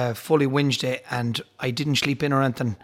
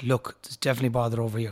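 hushed aside; 4 semitones lower, 6 dB quieter, faster than usual. Retold or imitated. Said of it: "I said".

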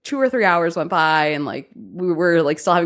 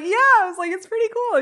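much higher, breezy and offhand; playing it cool in a high voice; mock casual. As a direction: shrug it off lightly. Her modest reply, played down.

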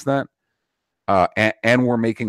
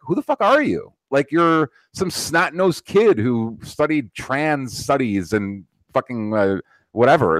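put-on much higher, scornful disbelief at the kids; incredulous mocking rant; 4 semitones higher than usual. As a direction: pitch it way up, sneering who-do-you-think-you-are. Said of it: "It's like".

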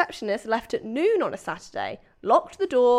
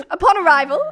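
Upon arrival, higher with a laugh, posh English; lightly posh, raised pitch on Upon arrival; mild posh accent; 5 semitones higher, 7 dB louder, faster than usual. Pretend. The reader does a touch of posh Prue Leith for Upon arrival. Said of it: "it's a little Prue Leith".

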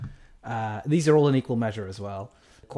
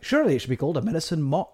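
put-on quick light Jamaican accent; a touch of Jamaican lilt; 3 semitones higher, faster than usual. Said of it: "like in a Jamaican accent".

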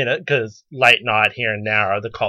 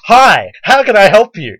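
sugary manager greeting; 8 semitones higher, 9 dB louder than usual. Retold or imitated. Fake-bright manager greeting.

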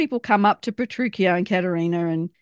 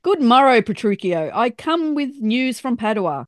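theatrical messenger announcing; hammy stage actor; 4 semitones higher than usual. Retold or imitated. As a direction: declaim it like an old stage player. Imitating the messenger's line.

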